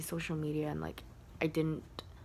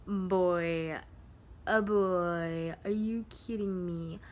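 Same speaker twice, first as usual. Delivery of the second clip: a hint of an indignant telling-off; mock scolding; much slower than usual. Retelling scolding the weed boy, exasperated. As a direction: call him out, exasperated.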